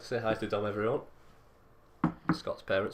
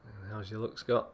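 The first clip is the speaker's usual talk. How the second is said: radio voice; 3 dB quieter than usual. Acted. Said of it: "Put my radio voice on".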